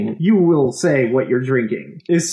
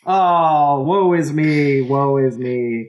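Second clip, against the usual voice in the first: hammy stage actor; slower than usual. Pretend. Melodramatic lament.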